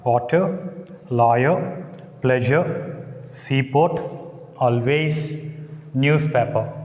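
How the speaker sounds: each word said alone, WA-ter, LAW-yer, PLEA-sure, SEA-port, AL-ways, NEWS-paper; first-syllable stress. Shown as a demonstration. Teacher demonstrating stress rule for nouns, first syllable stressed in each word. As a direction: stress the first syllable of Water, lawyer, pleasure, seaport, always, newspaper. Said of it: "take stress on first syllable".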